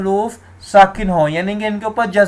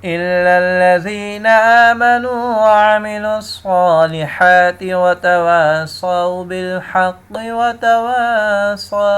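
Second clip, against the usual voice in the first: slow chanted tajweed recitation; Quran recitation; much slower than usual. Shown as a demonstration. Teacher recites the verse for students, slow chant.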